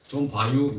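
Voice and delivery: brief Chungcheong accent; Chungcheong dialect. Shown as a demonstration. Preacher showing the short Chungcheong version, Chungcheong accent. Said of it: "충청도는요?".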